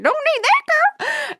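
put-on menacing old-timer warning a girl; cackly wheezy old timer. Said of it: "old prospector voice".

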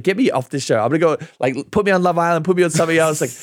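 high, pleading mock desperation; mock desperate plea. Contestant begging producers to move him, hammed-up desperate pleading. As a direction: beg the producer like it's life or death. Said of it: "I was like".

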